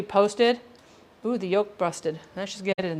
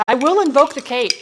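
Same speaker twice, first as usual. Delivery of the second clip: louder, higher mock warning; mock threat; 4 semitones higher, 6 dB louder than usual. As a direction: warn him with playful menace. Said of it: "It's like".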